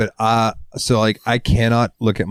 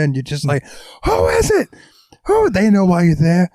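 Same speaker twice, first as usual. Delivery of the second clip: much higher, shouted comic rant; Bill Burr rant; 6 semitones higher than usual. Retold or imitated. Retelling Bill Burr's bit, shouting high and wild. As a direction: yell it like a riled-up comic. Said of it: "that Bill Burr joke".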